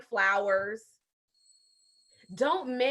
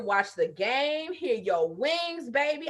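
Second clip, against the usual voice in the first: a lightly played loving wife; sweet-talking wife; 2 semitones higher than usual.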